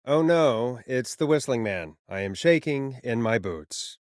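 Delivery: dry mock fear; sarcastic. Host mocking the kids' Whistling Man prank with mock fear. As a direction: sneer at the prank callers' killer act.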